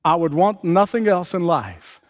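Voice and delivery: high, slow, stretched-out plea; imitated crying out. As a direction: cry out the wish, drawing each word out. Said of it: "Then he cried out".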